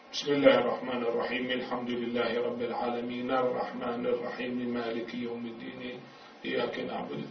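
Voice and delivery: soft, level recitation without stops, الرحيمِ flowing into الحمد; connected recitation. Shown as a demonstration. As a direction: run the verses together, voicing each final vowel. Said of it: "أما إذا يقرأ متصل".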